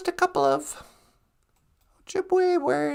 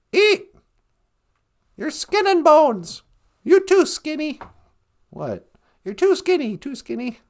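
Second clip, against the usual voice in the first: guilt tripping grandma. Acted. Grandma urging food.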